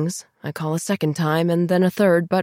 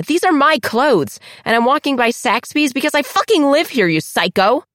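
snarling; 9 semitones higher, 5 dB louder than usual. Acted. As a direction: snarl it right in her face. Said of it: "Diana snarls".

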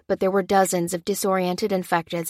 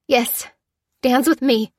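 choked lie; 6 semitones higher, 5 dB louder than usual. A narrator's reading. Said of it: "choked Lucy".

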